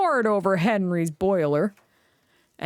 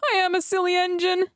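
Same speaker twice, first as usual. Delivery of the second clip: rueful; 11 semitones higher than usual. A narrator's reading. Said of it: "he said".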